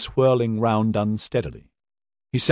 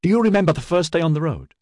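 manic; 7 semitones higher, faster than usual. A narrator's reading.

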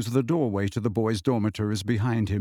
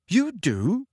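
heart lifting; 8 semitones higher than usual. A narrator's reading. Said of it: "his heart lifting".

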